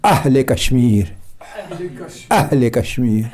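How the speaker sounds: low "اہل Kashmir" with a glottal catch on "اہل"; slight jolt. Shown as a demonstration. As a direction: give "اہل" a small jolt at the start. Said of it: "جھٹکے کے ساتھ تھوڑا سا".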